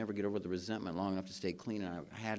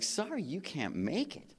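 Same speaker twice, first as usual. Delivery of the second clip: hammed-up disbelief, louder at the end; mock indignant; 8 semitones higher, 4 dB louder than usual. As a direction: play up the outrage at being stood up. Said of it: "I'm like".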